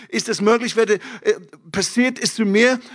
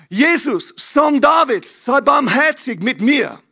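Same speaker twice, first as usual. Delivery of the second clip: crying out; 4 semitones higher than usual. Retold or imitated. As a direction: cry out to Jesus, pleading. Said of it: "hat angefangen zu schreien". (laut flehender Ruf)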